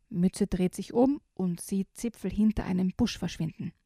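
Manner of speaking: put-on lively read-aloud for children; reading a picture book to kids; story narration.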